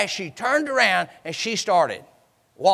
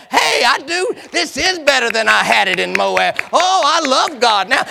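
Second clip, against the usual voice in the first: joyful; 5 semitones higher, 5 dB louder than usual. Acted. Joyful convert shouting praise.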